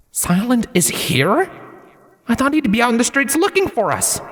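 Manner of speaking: high, panicky inner voice; alarmed whisper-thought of a frightened hero; near panic. A narrator's reading. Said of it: "his almost panicking breaths".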